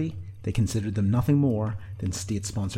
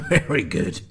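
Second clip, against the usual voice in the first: slightly raised, amused bark; laughing bark; 4 semitones higher, 5 dB louder, slower than usual. A narrator's reading. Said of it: "he barked, laughing".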